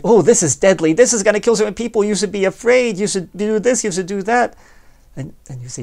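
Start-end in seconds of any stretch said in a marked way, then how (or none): 0.0-4.5 higher, louder, rushed scaremonger voice; mock media alarm. Media voiced scaring the public into obeying, mock alarmist. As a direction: ham up a breathless news alarmist. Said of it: "Suppose they say openly".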